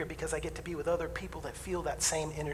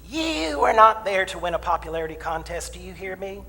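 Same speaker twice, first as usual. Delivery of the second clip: stern counselor; 5 dB louder than usual. Retold or imitated. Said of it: "And she said".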